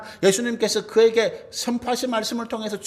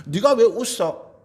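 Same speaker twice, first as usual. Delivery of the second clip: preacher voicing God's forceful rebuke; stern reproach; 3 semitones higher than usual. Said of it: "강하게 책망하시는 말씀이죠". (강하게 책망하듯)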